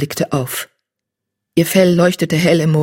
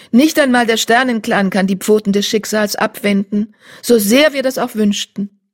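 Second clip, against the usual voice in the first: insistent she-cat; 5 semitones higher than usual. Acted. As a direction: press the point kindly. Blaustern stresses.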